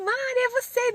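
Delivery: high-pitched mock greeting; delighted recognition, imitated. Mother recognising the speaker at the park, imitated high greeting.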